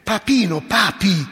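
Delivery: tender. Shown as a demonstration. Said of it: "termine vezzeggiativo, affettuoso".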